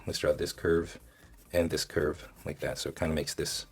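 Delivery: normal talking voice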